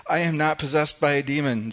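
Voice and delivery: loud and high, hitting back hard; Jesus rebuking the Jews, loud and sharp; blasting retort. Acted. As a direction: fire it straight back at them. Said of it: "and blasts him".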